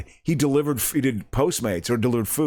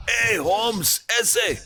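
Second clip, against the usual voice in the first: cholo impression; 9 semitones higher, much slower than usual. Mock gangster greeting from movie.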